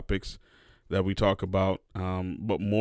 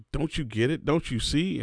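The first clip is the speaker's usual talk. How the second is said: exasperated; 6 semitones higher than usual. Retold or imitated. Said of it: "It drove me crazy 'cause I'm like".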